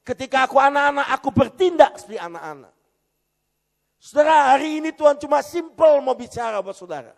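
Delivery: loud, high preacher's cry to the congregation; fiery preaching. Acted. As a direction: thunder the question at the church. Preaching at full force.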